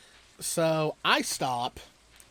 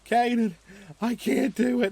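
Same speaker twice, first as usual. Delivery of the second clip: whiny little brother; 7 semitones higher, 6 dB louder than usual. Retold or imitated. Brother whining about heavy scooter.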